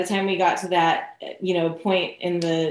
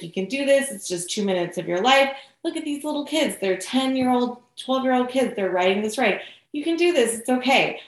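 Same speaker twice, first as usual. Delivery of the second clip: higher, coaxing pep talk; encouraging boyfriend; 4 semitones higher, faster than usual. Retold or imitated. Boyfriend urges her onto the coaster, encouraging. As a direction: imitate a boyfriend gently urging you on. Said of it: "he loves to, like, encourage me".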